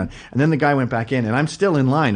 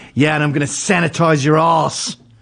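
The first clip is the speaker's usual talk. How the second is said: loud, booming tough-guy voice; 3 semitones higher, 4 dB louder than usual. Telling a story about a trip to the liquor store, imitating a loud guy. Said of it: "and he's loud".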